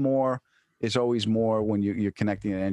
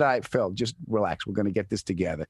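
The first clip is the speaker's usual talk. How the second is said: calm, lower mock reassurance; retold reassurance; 4 semitones lower than usual. Soothing Phil in the car, retold reassurance. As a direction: talk a panicking friend down, lightly acted. Calms down his panicking friend.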